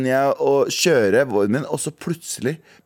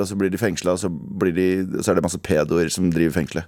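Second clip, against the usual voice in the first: ordinary talk, nothing marked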